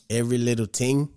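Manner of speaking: put-on light, playful Jamaican accent on "every little ting"; mock Jamaican accent. Podcast host riffing on a biopic about a singer, mock Jamaican accent. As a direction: drop into a jokey Jamaican lilt. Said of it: "It's my fool-ass Jamaican voice".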